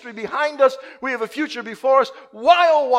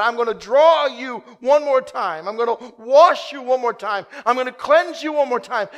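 emphatic promise; 3 semitones higher, 5 dB louder than usual. Acted. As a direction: proclaim it with rising force. Preacher voicing God's promise.

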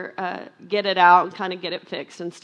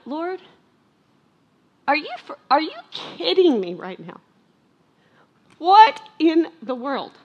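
much higher and louder, slow, outraged; mother venting to the Lord about her daughter's stolen car, higher, louder and slow; exasperated prayer; 8 semitones higher, 7 dB louder than usual. Retold or imitated. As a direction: cry out to God in frustration. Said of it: "It set me off".

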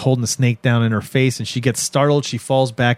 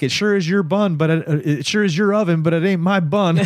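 put-on dude voice, pitched up; dismissive dude; 5 semitones higher than usual. Dude to crying woman on the bench, high mock denial. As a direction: imitate a man denying everything, high. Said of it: "He says something like".

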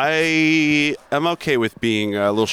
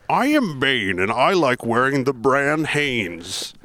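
Bane joke; slower than usual. Pretend. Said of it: "How about this one?".

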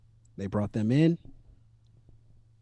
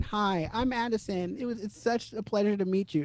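mock-sweet high greeting voice; Addison Rae; 8 semitones higher, 3 dB quieter than usual. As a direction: imitate an eager, ingratiating greeting, pitched up. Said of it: "and saying".

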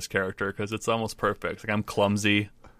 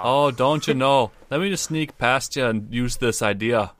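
put-on Midwestern accent; 3 semitones higher, 3 dB louder, slower than usual. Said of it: "hope that's the accent".

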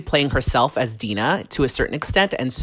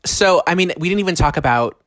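mouth full. Real, not acted. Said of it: "I'm eating".

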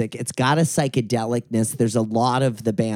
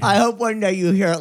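quick, higher, louder mocking quote; mock wistful pop singer; 7 semitones higher, 4 dB louder, faster than usual. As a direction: tease the line, fast and bright.

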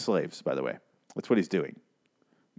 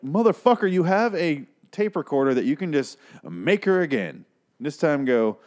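exasperated yell; 5 semitones higher than usual. Retold or imitated. Viewer yelling at the husband on screen, exasperated. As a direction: yell at the character in disbelief.

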